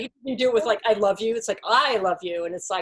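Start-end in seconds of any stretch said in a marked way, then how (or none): 0.8-1.4 "I" stretched and leaned on, the rest tailing off; emphasis on the first word, "I"; stress on I. Shown as a demonstration. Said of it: "you put the emphasis on one word". 1.6-2.5 "love" drawn out and weighted, "I" and "you" lighter; emphasis on the middle word, "love"; stress on love. Shown as a demonstration. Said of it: "put the emphasis on a different word".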